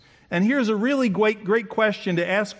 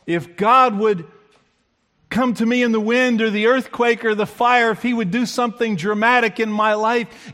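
eager listener; 4 semitones higher, 3 dB louder than usual. Retold or imitated. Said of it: "you might be saying".

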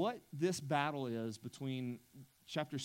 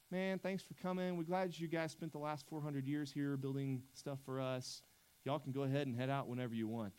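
mock polite dismissal. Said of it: "This isn't just like".

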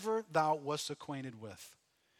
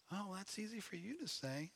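mock sulky reply; 14 dB quieter than usual. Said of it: "imagined reply from listener".

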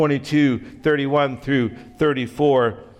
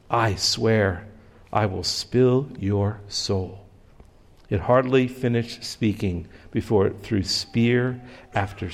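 steady dramatic storytelling read; story narration. A narrator's reading. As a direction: read the allegory like a tale to the congregation. Reads story aloud before sermon.

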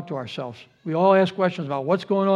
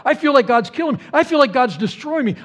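high, insistent lament; talking real; 6 semitones higher, 3 dB louder than usual. Retold or imitated. Job venting that God is against him, raised raw complaint. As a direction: build the complaint by hammering each repeat. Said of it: "he's talking real here".

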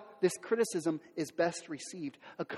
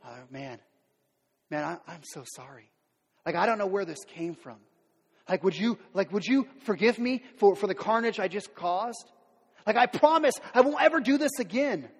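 remorseful apology. Retold or imitated. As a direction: plead for forgiveness, ashamed. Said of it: "I go to my family".

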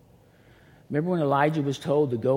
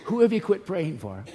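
pressing question; 6 semitones higher, 5 dB louder than usual. Real, not acted. Preacher presses the congregation.

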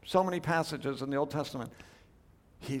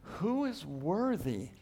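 angel's proclamation; 4 dB quieter, slower than usual. Acted. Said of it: "proclaims with a loud voice".

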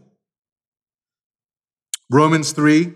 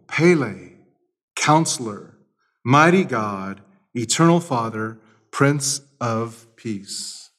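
scripture reading; 2 semitones higher than usual. Acted. Reads Isaiah aloud.

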